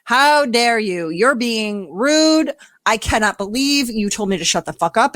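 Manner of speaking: mildly hammed-up outrage; mock upset indignation. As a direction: play the affronted partner, understated. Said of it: "does she get upset".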